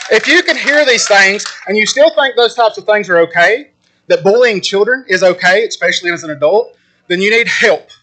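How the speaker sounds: real, heated public scolding; indignant rebuke. Real, not acted. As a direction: drive the accusation home to the whole room. Closing rebuke of bullying adults.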